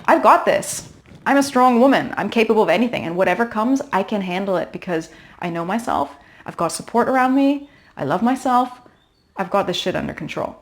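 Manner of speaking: upbeat pep talk to yourself; confident inner voice. Pretend. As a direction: cheer yourself on like your own best friend. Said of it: "turning up the volume on the good voice".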